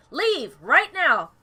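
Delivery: stern command. Acted. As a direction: spell out each word so he leaves. Character orders him out.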